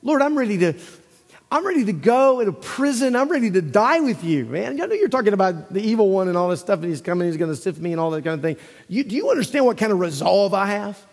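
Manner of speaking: lightly voiced bold disciple; mock-confident Peter; brash Peter. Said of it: "He says".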